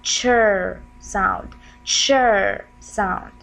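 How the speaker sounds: "chur" as one drawn-out syllable; "chur", ch running into a long r; demonstrated chur sound. Shown as a demonstration. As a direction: say "chur" slowly as a single blended sound. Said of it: "we will pronounce it one sound".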